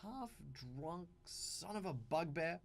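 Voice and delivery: slow, put-on character voice for a mock insult; witty in-game insult. An in-game character mocking a drunk dwarf, slow and put-on. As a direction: slowly savor a cheeky in-character jab. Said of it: "throw things like".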